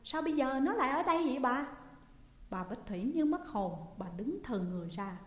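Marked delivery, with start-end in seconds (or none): 0.0-1.7 higher, louder puzzled question; asking louder. A narrator's reading. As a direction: call out to the lady. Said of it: "hỏi to hơn". (hỏi to ngạc nhiên)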